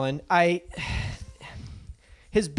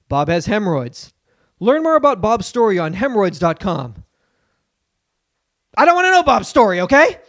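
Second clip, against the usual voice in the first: Jay Leno impression. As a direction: rant like an aging late-night host doing stand-up. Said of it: "Do Leno".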